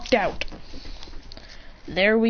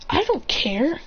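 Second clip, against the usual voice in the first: higher-pitched brat talking back; defiant; 5 semitones higher, slower than usual. Retold or imitated. Princess refusing a boy's order to leave, defiant.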